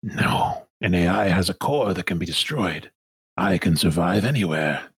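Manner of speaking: lightly voiced lofty villain; measured, superior correction; Sun Minister De Winton. Villain correcting the crew about its nature, measured and lofty.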